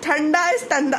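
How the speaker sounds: shows how ठंडा turns into तंदा; lisp demo. Shown as a demonstration. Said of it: "साची is a little तोतली ऐसे".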